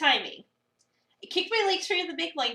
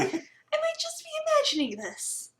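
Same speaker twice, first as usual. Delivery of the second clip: uneasy; 14 semitones higher, slower than usual. Acted. Reading the player character's thoughts.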